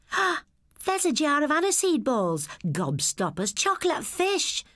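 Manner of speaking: a lightly voiced boy marvelling at the sweets; rising delight at each jar; excited boy. A narrator's reading. Boy at the shop window, lightly voiced wonder.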